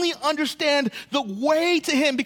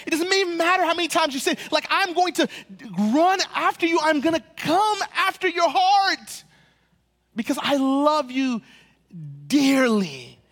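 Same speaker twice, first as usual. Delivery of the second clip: eager loving promise; 3 semitones higher than usual. Acted. God's loving words voiced.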